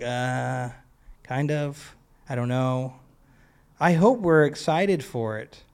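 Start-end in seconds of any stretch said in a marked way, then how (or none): 0.0-2.9 lukewarm shrug. Pretend. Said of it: "or like".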